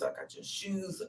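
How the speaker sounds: slow, hushed reproach; whispered reproach. Retold or imitated. Reproaching Jose after all she did for him, whispered. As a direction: drop to a hurt whisper. Scolding Jose for his ingratitude.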